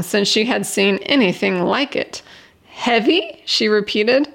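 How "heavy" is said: rising disbelief on "Heavy?", higher; incredulous echo. Acted. Jenny repeats the stranger's worry, incredulous and higher. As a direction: toss the word back, amazed.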